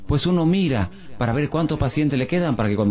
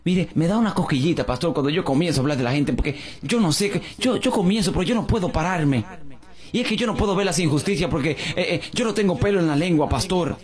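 higher, fast chattering woman; lightly voiced gossip; 6 semitones higher, faster than usual. Pastor lightly mimics the gossiping woman confessing her habit. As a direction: rattle on about gossiping.

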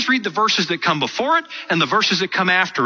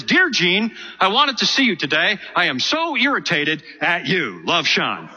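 same letter read with the warm parts missing; mock reading of a mangled love note; gappy, clipped-off letter. Shown as a demonstration. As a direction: read the broken note so it sounds harsh. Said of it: "half of it is missing".

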